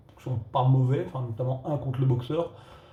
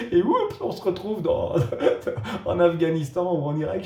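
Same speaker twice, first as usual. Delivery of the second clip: real laughter bubbling through the words; laughing; 4 semitones higher, 3 dB louder than usual. Real, not acted. Reviewer laughing at the film's abrupt jump cut to war. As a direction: chuckle through it, a bit higher.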